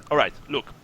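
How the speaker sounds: emphatic, no-nonsense ultimatum; stern sergeant. Acted. Sergeant demands fifty gold crowns from smugglers, stern. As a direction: lay down terms, pressing each point. Sergeant sets new price.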